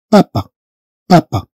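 "بابا" with two hard Ps; hard French P. Shown as a demonstration. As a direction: say "بابا" as "papa", both Ps firm. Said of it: "بي مشددة".

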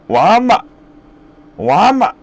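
put-on loud, high "완마!" like older cousins; 사촌 형들 흉내로 크게 "완마!"; imitating cousins' yell. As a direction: call "완마!" the way the cousins shouted it. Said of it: "사촌 형들은 완마 그래서".

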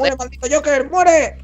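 high shouted battle cry. Real, not acted. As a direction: yell at the villain. Grito de batalla contra Joker. (grito de batalla)

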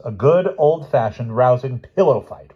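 loud, slow bellow; slow roared declaration; roaring. Acted. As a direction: roar it out triumphantly. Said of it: "roared the professor".

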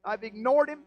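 forceful self-reproach on another's behalf; guilty confession. Acted. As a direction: preach it as a remorseful wife's admission. Voicing a guilty wife's confession.

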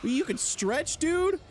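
high, incredulous outburst; astonished. Real, not acted. Player sees the enemy stretch, astonished. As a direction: pitch it way up in disbelief.

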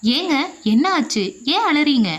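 a mild flustered worry; anxious. Acted. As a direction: ask in alarm why her husband is crying. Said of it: "பதட்டத்தோடு மனைவி லட்சுமியும் கேட்டாள்".

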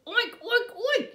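loud high piggy oinks; a pig showing off; high oinking. Acted. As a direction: oink like a happy pig. Pig says magic word.

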